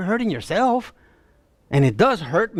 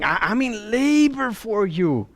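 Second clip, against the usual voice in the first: pleading; 3 semitones higher than usual. Acted. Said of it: "you get the tone of the passage".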